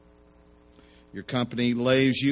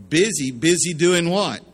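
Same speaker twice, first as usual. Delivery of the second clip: worried disbelief; 7 semitones higher, 7 dB louder than usual. Retold or imitated. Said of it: "Now he's kind of worried".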